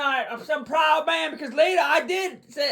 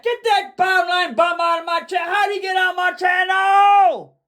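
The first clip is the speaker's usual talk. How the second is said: indignant outburst; 3 semitones higher, 3 dB louder than usual. Real, not acted. Host ordering a commenter off the channel, indignant. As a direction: throw the heckler out, getting louder.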